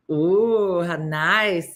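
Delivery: lightly mimicked cooing reaction; light impression with a lilting tune; Jurgen. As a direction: give a mildly put-on approving "ooh". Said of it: "said Jurgen".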